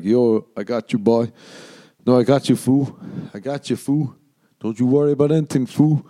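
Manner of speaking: mock gang bravado; tough fan. Fans after a show reassuring the comic, lightly voiced tough guy. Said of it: "they come up after and they're like".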